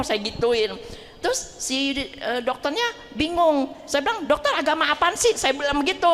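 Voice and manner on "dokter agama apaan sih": mildly exasperated, higher-pitched question; retold annoyance. Patient questioning the puzzled doctor, mild mock annoyance. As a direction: playfully re-enact being fed up. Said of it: "Saya udah kesel juga".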